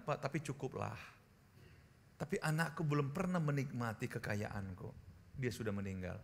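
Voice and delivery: soft, low, hushed retelling; quiet storytelling. Acted. Pastor quietly retelling a grieving friend's story, soft and low. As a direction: draw them in with a hushed story.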